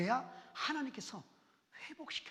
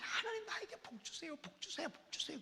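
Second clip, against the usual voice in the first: pleading, fading to whisper; 5 semitones higher than usual. Acted. Begging for blessing, fading.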